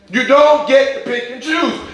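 You don't get to pick and choose. called out high; emphatic rebuke. Real, not acted. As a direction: lift it up and make them hear it. Emphatic rebuke, repeated later quietly.

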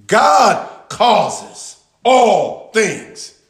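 drawn out very slowly, every word weighted; slow emphatic. Acted. Pastor driving the verse home to the congregation, very slow. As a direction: let each word land heavily, slowly.

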